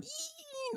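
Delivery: thin high-pitched "eee"; tiny excited little-girl squeal. Retold or imitated. Imitating the excited girl from a gif, high squeal. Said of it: "like, she's so excited".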